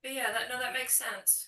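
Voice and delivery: faint and distant, well off-mic; far from the mic. Real, not acted. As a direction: speak from across the room. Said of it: "Evie, you sound so far away".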